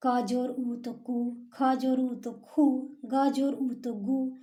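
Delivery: slow, clear phonics chant; slow syllable drill. Shown as a demonstration. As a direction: spell out क जोर ऊ तो कु slowly. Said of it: "एक एक वर्ण के साथ इसका उपयोग सिखाना होगा".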